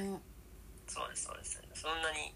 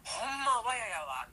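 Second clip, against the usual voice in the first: slow dialect line; 7 semitones higher, slower than usual. Shown as a demonstration. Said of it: "みたいな".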